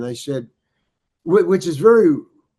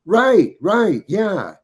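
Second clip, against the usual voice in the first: eager agreement; 6 semitones higher, 6 dB louder, much slower than usual. Retold or imitated.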